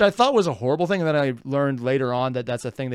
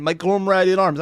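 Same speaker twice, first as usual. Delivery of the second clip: Texan accent mimicry, a little raised; mock Texan accent; 4 semitones higher, 4 dB louder than usual. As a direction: imitate a muddled Texan accent. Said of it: "maybe it's Texan".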